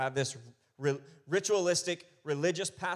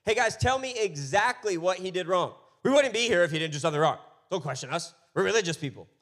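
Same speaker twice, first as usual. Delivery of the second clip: indignant accusers; 2 semitones higher, 7 dB louder than usual. Retold or imitated. Accusers voiced retelling.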